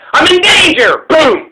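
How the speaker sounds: high, sudden mock yell of danger; mock panic shout. Driver pretending to be threatened by a calf, hammed-up shout. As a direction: ham up a driver's fake panic.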